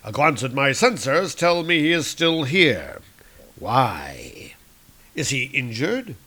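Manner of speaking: lightly voiced scornful villain; Doctor Doom. Doom reading his sensors, scornful. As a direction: sneer at the hero's dullness. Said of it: "It says".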